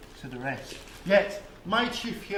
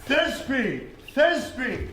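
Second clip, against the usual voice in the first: high little voice, called out; tiny monster voice; 6 semitones higher, 4 dB louder, slower than usual. Acted. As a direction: call it in a tiny squeaky voice. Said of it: "I'll speak in a monstrous little voice".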